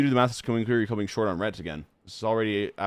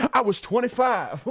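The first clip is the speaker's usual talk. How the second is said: mocking the film's breezy cover-up, pitched way up; mock documentary voice; 12 semitones higher, 6 dB louder than usual. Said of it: "they just kinda go like".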